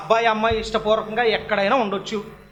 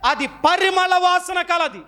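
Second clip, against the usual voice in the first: slow, deliberate words, each one weighed; slow statement; 8 semitones higher, much slower than usual. Shown as a demonstration. Preacher teaching the flower's trait, slow and deliberate. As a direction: lay it out slowly for the congregation. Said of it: "ఎలాంటిది?".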